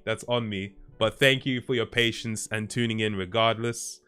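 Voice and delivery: ordinary delivery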